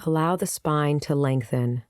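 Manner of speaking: unhurried meditation guide with long pauses; calm, spaced-out guiding voice; guided meditation. Acted. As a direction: lead them gently into the practice, pausing between phrases.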